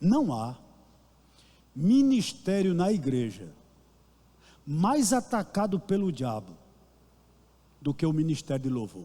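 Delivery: very slow, deliberate, word-by-word delivery. Asking listeners to open their ears, speak very slowly. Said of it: "eu vou falar bem devagarzinho aqui".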